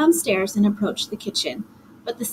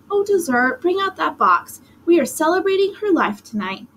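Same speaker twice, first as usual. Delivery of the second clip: bright, higher mom voice; cheerful; 6 semitones higher than usual. A narrator's reading. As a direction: coax cheerfully, pitched up. Mommy cheerful, urging.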